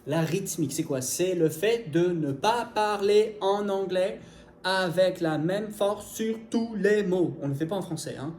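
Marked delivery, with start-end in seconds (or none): 1.0-7.4 "avec la même force" spaced out slowly, each word equally hit; equal force every word. Shown as a demonstration. Teacher explains English rhythm, "tous les mots" hammered slowly and evenly. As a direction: give "tous les mots" the same slow, even weight. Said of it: "une espèce de ton monocorde".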